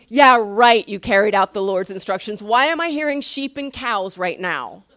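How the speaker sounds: a loud scoffing yeah right, then mock disbelief; sarcastic. Samuel scoffing at Saul's excuse, loud sarcasm. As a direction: roll your eyes at an obvious lie. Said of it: "he's just going".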